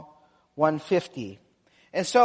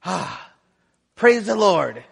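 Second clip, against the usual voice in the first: relieved sigh; slower than usual. Retold or imitated. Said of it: "wipes his brow, and he goes".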